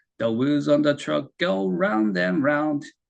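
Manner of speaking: very slow, every word stretched out.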